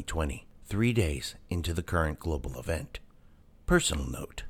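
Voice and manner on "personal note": hushed private whisper. Acted. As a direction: breathe it as a secret aside. Whispered aside before the note.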